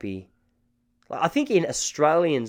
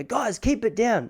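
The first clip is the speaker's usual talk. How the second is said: drawn-out, higher call to noisy neighbours; 11 semitones higher, slower than usual. Retold or imitated. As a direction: call out slowly, pitched up.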